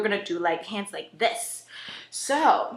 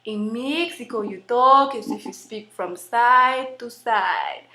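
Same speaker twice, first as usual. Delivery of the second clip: slow, swaying Mexican-accented English. Shown as a demonstration. Performer showing how Mexicans talk, Mexican accent. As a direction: speak from side to side in a Mexican accent. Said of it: "Mexican accent".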